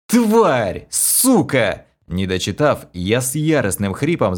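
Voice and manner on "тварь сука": furious curse. A narrator's reading. Hero curses.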